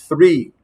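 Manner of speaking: "three" starting with a th, like Spanish Z. Shown as a demonstration. Teacher showing students how three begins, Castilian Z sound. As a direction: say "three" with the tongue-between-teeth th sound. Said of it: "Z española".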